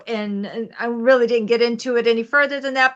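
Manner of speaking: normal talking voice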